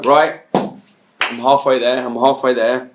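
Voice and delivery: drawn-out musing, as if working it out; slow, self-satisfied thinking aloud; slow mock pondering. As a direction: savour each word, playing the clever guesser. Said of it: "And you go".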